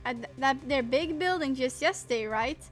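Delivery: lightly voiced Southern reporter, brash and busy; Southern accent. Pushy Southern photographer brushing off the investigators in a light Southern accent. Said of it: "I can't do the accent".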